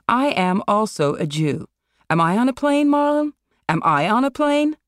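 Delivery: rising outrage, pressing the question harder each time; Elizabeth's offended voice, building to a high indignant pitch; indignant friend. Acted.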